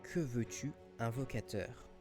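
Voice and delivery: voix de corne magique, à peine plus grave; voix caverneuse. Acted. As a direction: une légère voix d'outre-tombe. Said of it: "une voix caverneuse". (voix caverneuse discrète)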